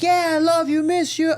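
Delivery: hammed-up loving cry at a high pitch; over-exaggerated affection. Dad playing along with son's ruse, over-exaggerated love.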